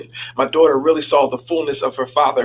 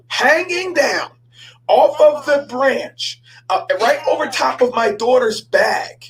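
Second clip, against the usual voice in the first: slow and high, drawn out; suspenseful build; 8 semitones higher, slower than usual. Acted. Pastor telling the congregation about the snake, slow suspense. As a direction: stretch each word to build dread.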